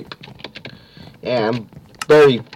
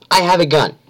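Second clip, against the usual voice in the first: quoting the killer; 6 semitones higher, 4 dB louder than usual. Retold or imitated. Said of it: "wait, he did s".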